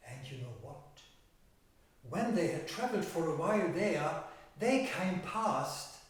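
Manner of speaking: measured fairy-tale narration with stretched key words; storytelling to children. Acted. Telling children of thirteen brothers and an old woman, storytelling. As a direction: tell it to young listeners, leaning on the pictures.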